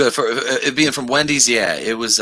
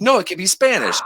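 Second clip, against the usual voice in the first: mock Jerry; 6 semitones higher than usual. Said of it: "He's like".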